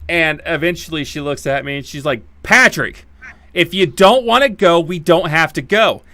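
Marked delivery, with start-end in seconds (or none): 2.4-6.0 insistent. Retold or imitated. Wife's offer, third time, insistent.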